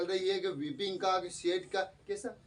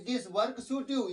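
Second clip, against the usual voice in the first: very slow, a little higher; slow English quote; 4 semitones higher, much slower than usual. Retold or imitated. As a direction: dictate slowly. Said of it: "तो देखिए उन्होंने क्या कहा".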